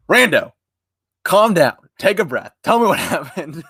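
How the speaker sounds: high, mock-soothing friend's voice; a high, gentle friend voice saying calm down; imitating friend calming me. Friend on the call calming a panicking streamer, high soothing voice. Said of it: "and then I heard".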